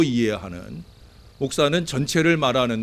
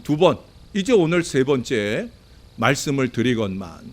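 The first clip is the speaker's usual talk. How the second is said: ordinary delivery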